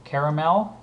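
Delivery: usual speaking voice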